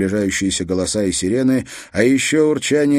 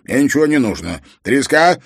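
loud, high-pitched grouch; grumpy; 5 semitones higher, 5 dB louder than usual. A narrator's reading. Treska picking up his phone to an unknown caller, grumpy. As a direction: answer the phone crossly, voice raised. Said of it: "сварливый голос".

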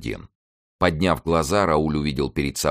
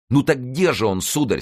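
tender, gentle voice; 9 semitones higher, 4 dB louder than usual. A narrator's reading. Youth asking where his guardian is, tenderly. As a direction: ask it gently, in a higher voice. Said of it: "своим нежным, ласковым голосом".

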